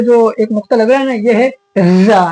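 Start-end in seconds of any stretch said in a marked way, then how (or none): 1.8-2.2 "जा" with a firm, buzzing z, held long; hard za. Shown as a demonstration. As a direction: press hard on the z of "जा". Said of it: "इसको थोड़ा सा hard पढ़ना है".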